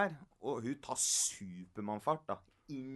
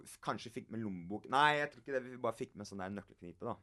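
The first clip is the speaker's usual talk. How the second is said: ordinary delivery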